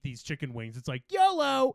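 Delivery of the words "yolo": high, loud, hammed-up whoop; mock gung-ho cheer. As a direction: shout it like a reckless battle cry. Mocks reckless yolo while eating wings.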